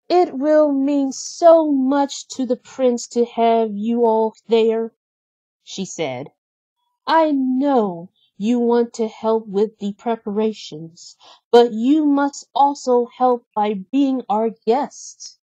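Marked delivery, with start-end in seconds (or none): 0.1-4.9 lightly higher Belle voice, gently voiced. Narrator voices Belle in story. 7.1-15.4 lightly higher Belle voice, gently voiced. Narrator voices Belle in story.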